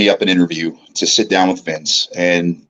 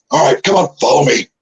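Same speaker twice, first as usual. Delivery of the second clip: lightly voiced colleague, slightly raised; John Laurinaitis; 4 semitones higher than usual. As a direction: usher someone along, light impression. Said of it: "he had his tray and he goes".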